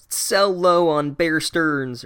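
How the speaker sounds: a hint of a TV stock tipster; financial TV host. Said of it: "like one of those fucking C N B C hosts".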